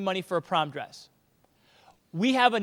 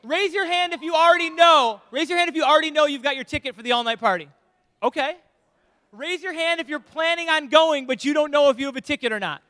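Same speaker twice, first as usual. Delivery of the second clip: higher, louder Ozark twang; ozark accent; 4 semitones higher, 4 dB louder than usual. Acted. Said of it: "In Ozark voice".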